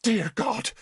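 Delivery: high, shocked cry; terrified gasp. Acted. Bishop sees his old enemy, high and horrified. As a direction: recoil in horror.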